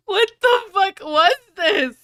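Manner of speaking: usual speaking voice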